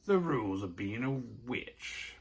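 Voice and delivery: chirpy, high-pitched retelling; stoked. Retold or imitated. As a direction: play a pleased witch passing on news. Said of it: "But she's stoked. She's like".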